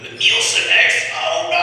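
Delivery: high, loud mock cry; mock panicked woman. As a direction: squeal like being flushed away. Woman voiced being flushed away.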